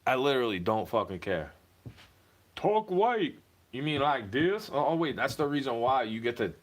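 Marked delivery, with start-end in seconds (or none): 2.5-4.7 southern twang. Retold or imitated. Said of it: "sounds like this a little bit".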